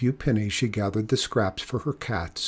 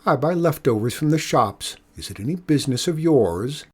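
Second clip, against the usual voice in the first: retort; 3 semitones higher than usual. Acted. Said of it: "Mikola retorted".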